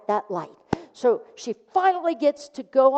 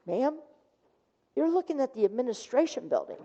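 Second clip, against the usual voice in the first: 1 gentle correction; 7 dB quieter, faster than usual. Retold or imitated. Student gently corrects, laughing.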